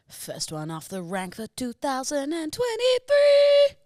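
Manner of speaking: announcer voice. Acted. Announcing first Hinge note.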